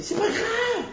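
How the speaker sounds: high, laughing "C'est pas grave"; laughing reassurance. Acted. Acted reassurance to a spouse. (« C'est pas grave » dit en riant, très aigu)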